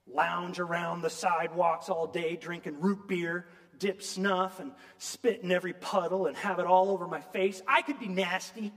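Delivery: a woman railing at heaven; angry rant at God. Retold or imitated. Mrs Turpin argues with God, indignant and loud. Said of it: "she growled".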